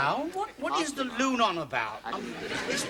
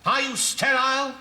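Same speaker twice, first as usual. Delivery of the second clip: melodrama; 3 semitones higher than usual. Acted. Radio melodrama, surgeon and nurse.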